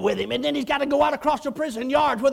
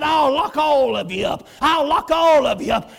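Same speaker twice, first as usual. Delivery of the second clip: loud repeated threat; retold angry captain; 2 semitones higher, 6 dB louder than usual. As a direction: warn them sharply.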